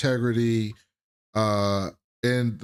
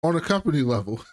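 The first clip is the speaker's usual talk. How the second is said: mimicking her; 6 semitones higher than usual. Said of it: "and she says".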